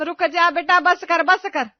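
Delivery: loud, urgent shout to stop. Acted. Mother-in-law yelling at bride to stop pouring water, loud. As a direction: yell at her to stop now.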